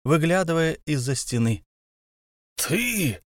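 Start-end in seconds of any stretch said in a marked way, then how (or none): 2.6-3.2 high furious yell. A narrator's reading. Thorin yells at Bilbo in rage. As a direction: bellow it at the hobbit. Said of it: "завопил Торин".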